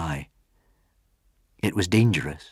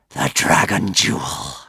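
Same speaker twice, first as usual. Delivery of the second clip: hissed sigh; 4 semitones lower than usual. Acted. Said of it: "he hissed with a terrible sigh".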